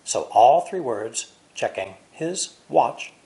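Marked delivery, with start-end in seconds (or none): 1.5-3.1 slow linked. Shown as a demonstration. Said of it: "are linked together".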